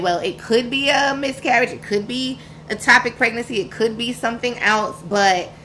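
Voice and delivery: lightly mimicked curt, pushy clerk voice; brusque and demanding about the cash; a hint of a cold receptionist asking for money up front; rude clinic worker. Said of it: "that's how this lady was talking to me".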